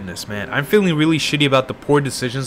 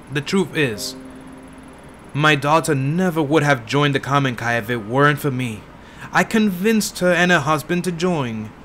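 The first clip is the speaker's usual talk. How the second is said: lightly voiced tired old woman; old lady. Old woman confessing to the detective, lightly voiced old lady. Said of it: "I'm trying to do an old lady voice".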